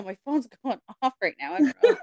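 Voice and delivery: laughing through the words. Real, not acted. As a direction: giggle it out, caught off guard. Phone goes off mid-riddle.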